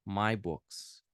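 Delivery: very slow, careful "those are my books"; teacher's slow repetition; slow model repeat. Shown as a demonstration. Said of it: "Those are".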